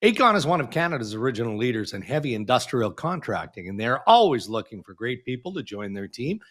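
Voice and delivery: measured radio ad read, slowing toward the end; sponsor read. Real, not acted. Host reads the show's sponsor message to listeners, sponsor read. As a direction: announce the sponsor with deliberate emphasis.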